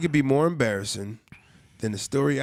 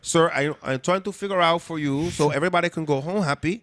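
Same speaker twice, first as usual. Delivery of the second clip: put-on Hispanic accent; 3 semitones higher than usual. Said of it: "accented Hispanic male".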